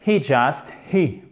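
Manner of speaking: "he" with a clearly breathed H; H aspiré. Shown as a demonstration. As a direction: sound the H at the start of "he". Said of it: "H aspiré, chers amis, ici". (« he » avec un H bien aspiré)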